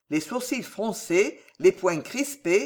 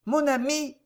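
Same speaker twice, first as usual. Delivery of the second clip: very gentle; 8 semitones higher than usual. A narrator's reading. Prisoner wins over his jailer, very gently. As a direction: address him gently, pitched up. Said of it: "fit-il d'une voix très douce".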